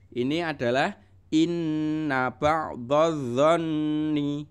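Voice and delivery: inna ba'dadh-dhanni drawn out, the double nn held; teaching a Quran verse aloud; Quran recitation. Shown as a demonstration. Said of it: "harus ditekan".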